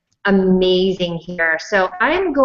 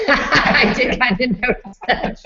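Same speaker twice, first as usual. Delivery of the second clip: talking through a laugh; amused laughing; 3 semitones higher, slower than usual. Real, not acted. Host to guests about the escaping dog, amused laughing. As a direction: laugh your way into a slow admission.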